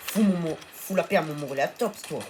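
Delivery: fierce shout; protective anger. Real, not acted. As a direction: yell at the raptor to leave his dino. Shouting at attacking raptor.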